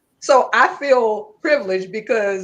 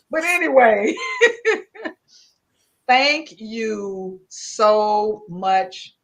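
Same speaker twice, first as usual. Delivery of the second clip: laughing thanks; 3 dB louder, much slower than usual. Real, not acted. Laughing thanks after greeting friend.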